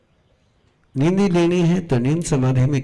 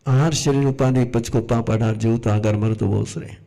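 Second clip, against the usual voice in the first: rote recitation; 3 semitones lower than usual. Shown as a demonstration. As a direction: reel it off in a low-key monotone. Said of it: "दोहा बोल करके कुछ नहीं होता". (रटा हुआ दोहा, बिना भाव के)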